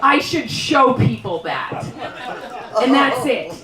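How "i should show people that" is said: slow, casual appraisal; oblivious man. Retold or imitated. Man stepping over her body, lightly voiced and slow. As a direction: drawl it like an indifferent passerby. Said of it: "step over me and go".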